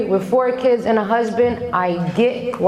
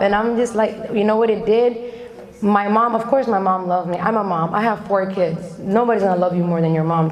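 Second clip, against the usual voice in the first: ordinary talk, nothing marked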